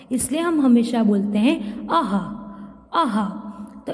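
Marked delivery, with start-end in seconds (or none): 1.9-3.3 अह said with a breathy h at the end; visarg sound. Shown as a demonstration. Teacher shows students the visarg sound, breathy h. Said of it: "इसका उच्चारण ह की तरह होता है".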